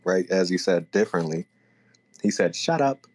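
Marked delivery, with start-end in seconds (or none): 2.6-3.1 "Shut up" run together as one word, higher and falling. Shown as a demonstration. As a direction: blur "Shut up" into a single word. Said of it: "like, all one word".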